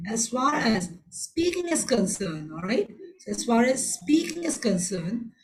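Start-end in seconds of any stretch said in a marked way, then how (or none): 0.1-2.5 "speaking" as the most prominent word, slowly delivered; slow phrase leaning on "speaking"; stress on SPEAKING. Shown as a demonstration. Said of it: "I'm stressing the word on speaking". 3.3-5.3 "speaking" made the most prominent word; stress on SPEAKING. Shown as a demonstration. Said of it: "I'm stressing the word on speaking".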